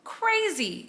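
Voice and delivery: slow, stunned excitement, peaking on the last word; excited disbelief. Real, not acted. Vlogger reacting to breakup news she predicted, excited disbelief. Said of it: "I'm so excited".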